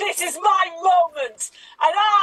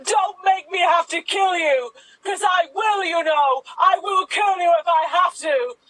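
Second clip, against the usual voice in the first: hammed-up threat. Acted gun standoff threat.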